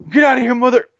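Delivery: high, punchy quote cut short; action hero imitation. Fan imitating the hero being censored mid-curse, forceful. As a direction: mimic a censored movie curse. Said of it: "He'd be like".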